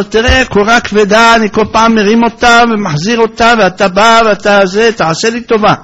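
high, loud fed-up pleading; fed-up complaint. Retold or imitated. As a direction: complain that he's had enough. Gentile complains again.

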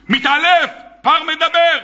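astonished cry of מתעלף; astonished exclaim. Shown as a demonstration. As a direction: gasp out מתעלף like you can't believe it. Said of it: "אתה לא מתעלף".

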